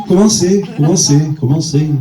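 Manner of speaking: the word echoing in a cavern. Pretend. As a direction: repeat commencer as a fading echo. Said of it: "il y avait de l'écho".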